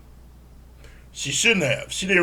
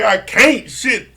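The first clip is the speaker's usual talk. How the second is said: laughing can't; 7 semitones higher, 5 dB louder, much slower than usual. Retold or imitated. Joy unable to stop laughing.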